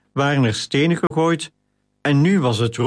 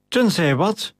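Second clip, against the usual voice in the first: snorting; 6 semitones higher than usual. A narrator's reading. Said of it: "brieste Flavius Octavius".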